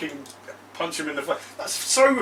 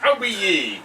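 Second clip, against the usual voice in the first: pirate voice; 3 semitones higher, much slower than usual. Acted. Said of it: "We're pirates".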